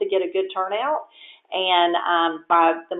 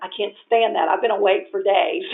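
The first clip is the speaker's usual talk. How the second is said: mock protest; 4 semitones higher than usual. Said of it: "the next day I'm telling him".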